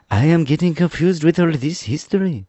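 high-pitched, bewildered character voice; confused Jack the Pumpkinhead. Acted. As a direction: puzzle it out in a high voice. Story figure Jack complains.

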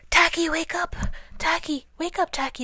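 high, loud, frantic wake-up call; high-pitched panicky calling; urgent cry. A narrator's reading. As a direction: cry out to rouse a sleeper. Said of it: "they cried".

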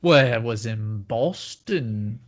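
slow, drawn-out mock Boston accent; put-on Boston accent. Host teasing co-host about the convention, mock Boston accent. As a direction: tease with an exaggerated Boston accent.

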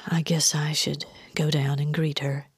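soft, reluctant murmur; resigned sigh. A narrator's reading. Jennifer reluctant to greet her mother, resigned sigh. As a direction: say it on a spent breath. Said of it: "then sighed".

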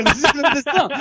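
very high, fast cartoonish kid voice; exaggerated cartoon intonation. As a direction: chirp it like a giggling cartoon kid.

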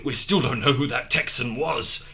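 reading through laughter; laughing. Real, not acted. Reader cracks up mid-quote.

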